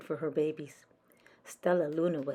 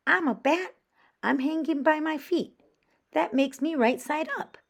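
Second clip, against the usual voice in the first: high, loud bat voice; a bold bat explaining the obvious; bat creature voice; 10 semitones higher, 5 dB louder than usual. Acted.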